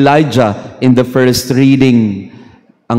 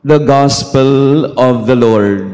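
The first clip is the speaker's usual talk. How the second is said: liturgical proclamation; slower than usual. Acted. Liturgical closing formula.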